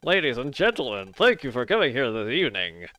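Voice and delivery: through a big grin. Acted. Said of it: "I'm trying to talk with, like, with my teeth showing all the time".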